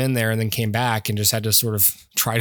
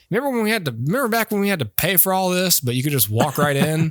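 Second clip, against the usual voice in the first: much higher, lightly voiced old-timer looking back; old folks reminiscing; 5 semitones higher than usual. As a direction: play an old man with a cane, reminiscing. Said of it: "with canes and go".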